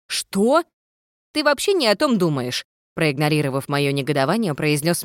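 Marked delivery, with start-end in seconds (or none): 0.1-0.6 outraged, pitch jumping up; shocked, sharp little question. A narrator's reading. Heroine outraged. 1.3-2.7 lightly raised ghost voice; a cheeky ghost, a bit higher. A narrator's reading. Ghost character voice.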